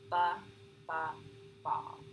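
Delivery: controlled repeat of first sound; ba, ba, ball bounced on the b; bounce. Shown as a demonstration. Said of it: "A bounce is a more controlled repetition of the first sound".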